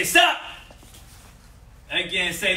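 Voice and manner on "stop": high, loud sharp shout; firm yell; loud command. Shown as a demonstration. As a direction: bark it out to stop someone cold. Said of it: "be loud and verbal with it".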